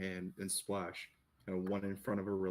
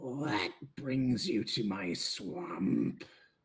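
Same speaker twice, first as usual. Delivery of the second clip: put-on rasping, raspy voice of an old woman; 4 dB louder than usual. Voicing someone calling out from the hut to the visitors, raspy old lady voice. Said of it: "this old, raspy uh, lady voice".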